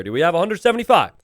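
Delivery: rapid-fire auction chant; fast auctioneer. Pretend. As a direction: rattle the bid off fast. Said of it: "casting this like an auctioneer".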